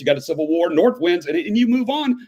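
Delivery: fast rattling auctioneer run-through; auctioneer rattle. Retold or imitated. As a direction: rush through the dates like an auctioneer. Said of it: "sounds like an auctioneer is doing it".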